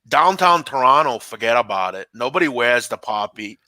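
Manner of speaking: put-on a Canadian accent that drifts toward Boston; Canadian accent drifting into Boston; Canadian accent attempt. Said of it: "should I read it in a Canadian accent".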